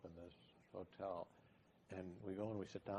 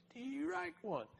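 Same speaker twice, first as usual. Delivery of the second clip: much higher squeaky aside; a tiny sidekick keeping score; mock squeaky aide voice; little guy's voice; 3 dB louder, much slower than usual. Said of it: "the little guy behind him going".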